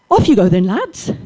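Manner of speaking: loud call across the pitch, rising high at the end; calling out to the boys. Retold or imitated. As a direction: call the lads to start the game. Teacher starting the match, calling out.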